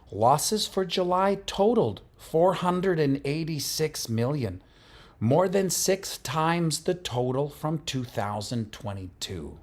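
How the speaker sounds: loud, high, dramatic crypto-news announcer; Altcoin Daily impression. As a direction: sell the headline like a breathless crypto YouTuber. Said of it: "This is still in, uh, Altcoin Daily".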